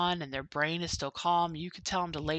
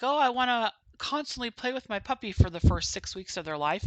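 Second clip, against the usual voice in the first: mock eager owner; 5 semitones higher than usual. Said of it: "you're like".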